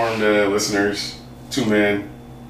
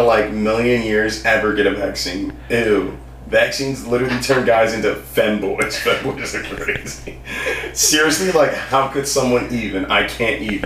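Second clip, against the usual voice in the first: put-on valley girl. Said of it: "That's the best, uh, iteration I can do of that".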